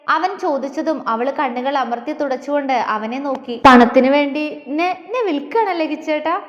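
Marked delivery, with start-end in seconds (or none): 3.7-6.4 smiling through tears, a touch bitter; bitter smile. A narrator's reading. Girl asks her cousin if he sells her, smiling bitterly. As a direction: ask it with a hurt, ironic smile, faster at the end. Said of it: "പുഞ്ചിരിയോടെയാണ് അത് ചോദിച്ചത്".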